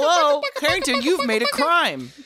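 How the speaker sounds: high loud playful cop; mock police voice. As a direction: bust him like a cartoon cop. Semantics police bit.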